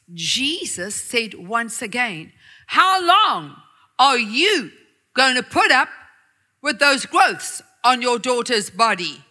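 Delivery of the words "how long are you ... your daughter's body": calm deep voice. Acted. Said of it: "In a calm, deep voice".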